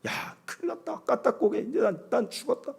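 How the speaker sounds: hushed mock dread, big drop in level; breathy pretend terror; mock panic. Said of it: "어떤 상태냐고". (겁먹은 척 속삭이듯)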